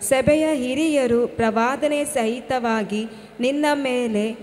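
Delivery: measured reading of Bible verses; scripture reading. Acted. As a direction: read the verse aloud with care. Daughter reads Bible verses aloud.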